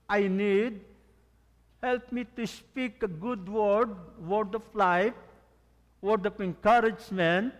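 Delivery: slow, earnest prayer voice, lifted to God. Pretend. Pastor models a morning prayer for the church, earnest and slow. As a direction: pray it out slowly as a model.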